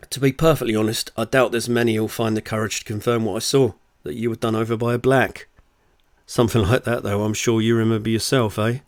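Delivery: lively, punchy audiobook read; story narration. Acted. Author reads their novel to listeners, story narration.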